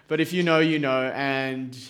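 normal talking voice

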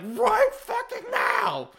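high, drawn-out mock shout; yelled order. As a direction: holler the command, stretching each word. Retells a character's furious order.

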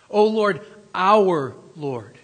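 preacher calling the name out loud; loud proclamation. Shown as a demonstration. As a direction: ring out O Lord, our Lord. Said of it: "don't miss that it says".

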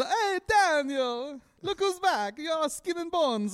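high, slow Italian nonna voice; guilt tripping grandma. Retold or imitated. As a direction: fuss over him like a nonna. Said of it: "like, a big Italian family".

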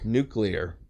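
"Nuclear" said NOO-klee-er; low, soft "Nuclear" with klee in the middle; standard pronunciation. Shown as a demonstration. Confirming the real form of "Nuclear", NOO-klee-er. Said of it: "what is it really called".

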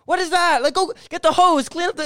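high, loud panicked-sounding yell; frantic high-pitched mock shouting; retold yelling. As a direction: act out yelling orders across the yard. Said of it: "my dad's yell".

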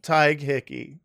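"Tig" said as one syllable, tie with a hard G; "Tig Hickey" said carefully and correctly; correct name pronunciation. Real, not acted. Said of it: "you're pronouncing it perfectly now".

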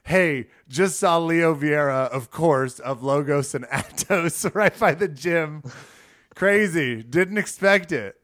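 reading excited text. Retold or imitated. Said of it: "this is the message".

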